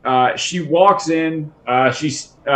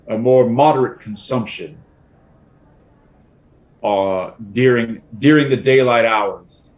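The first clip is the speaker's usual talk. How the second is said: put-on stern old woman; 3 semitones lower than usual. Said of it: "she looks down and she says".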